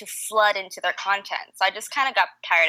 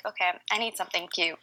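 whispered aside; 7 dB quieter than usual. Retold or imitated. Quoted thought, whispered.

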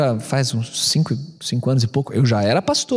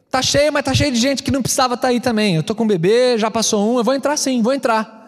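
heated retold argument; 6 semitones higher than usual.

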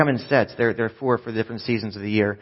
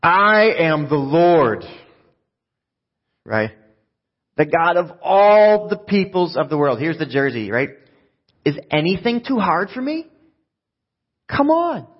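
slow, loud and much higher, every phrase proclaimed; booming voice of God; 5 semitones higher, 5 dB louder than usual. Shown as a demonstration. Preacher booms God's reply to a doubting Jeremiah, slow and loud. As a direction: thunder it out like God sure of his might. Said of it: "I think God said it like this".

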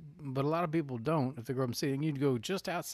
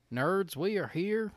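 put-on Southern accent; 5 semitones higher, slower than usual. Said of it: "I can do that voice".

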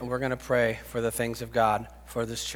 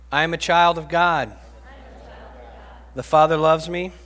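call-and-response declaration; 2 semitones higher than usual. Real, not acted. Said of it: "And repeat after me".

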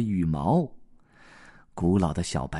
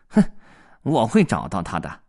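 sneering cat; 5 dB louder than usual. Acted. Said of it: "猫带着嘲笑的口吻说".

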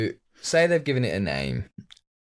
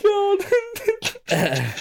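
laughing cry. Real, not acted. Reacting to failed accent, laughing.

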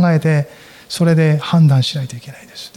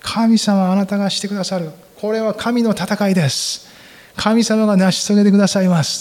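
fervent cry of faith; 5 semitones higher than usual. Acted. Voicing the people's cry of faith.

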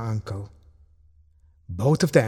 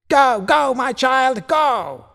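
high, urgent cheer; shouted cheering; 12 semitones higher, slower than usual. A narrator's reading. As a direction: cry out to spur on a runner. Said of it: "shouted her Uncle Ridley".

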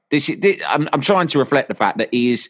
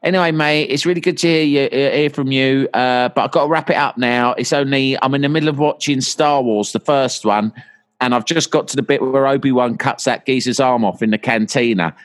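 patronising brush-off; 3 semitones higher than usual. Retold or imitated. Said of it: "shutting me down in a patronising way".

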